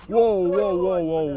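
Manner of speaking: loud, high volley of whoas; shocked outcry. Real, not acted. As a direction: cry out in real alarm. Reacts to cars running light.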